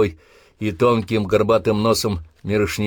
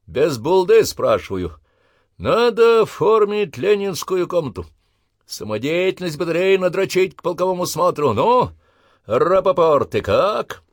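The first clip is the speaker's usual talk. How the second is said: parade-ground challenge; 9 semitones higher, 4 dB louder than usual. Acted. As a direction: challenge the line to step out. Sergeant addresses recruits.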